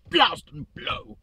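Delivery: very high, slow, prissy voice; hammed-up genteel exclamation instead of swearing; prim mock curse. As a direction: swap the swear for a ladylike oath. Self-censoring his swearing.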